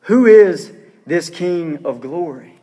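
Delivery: slow, deliberate question; measured response. Acted. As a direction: read the question out slowly, word by word. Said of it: "you get this response".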